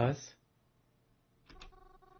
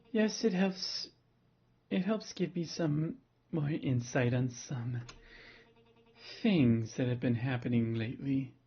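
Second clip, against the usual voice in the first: seductive voice. Acted. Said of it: "giving Twyla the seductive voice".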